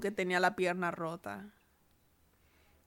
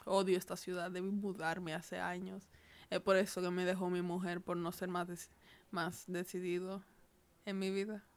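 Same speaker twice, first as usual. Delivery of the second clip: soft, low inner monologue; inner thought; 3 semitones lower, 10 dB quieter than usual. Acted. Injured man thinks to himself, soft hopeless murmur. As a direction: think it quietly to yourself, near despair. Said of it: "Y solamente pensó".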